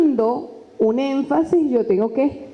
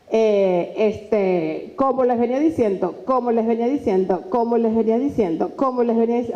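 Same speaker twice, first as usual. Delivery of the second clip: stuck repeating a filler phrase; hesitant repeated filler; verbal tics; 2 semitones lower than usual. Shown as a demonstration. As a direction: demo of nervous filler words. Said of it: "evitar el uso de coletillas o tics verbales".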